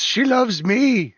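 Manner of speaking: loud, high, slow left head; bickering giant head. Acted. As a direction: insist like a squabbling giant head. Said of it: "The left head says".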